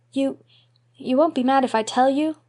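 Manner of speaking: put-on high, halting boy's plea; pleading little boy. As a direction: beg not to be scolded. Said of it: "implored Davy".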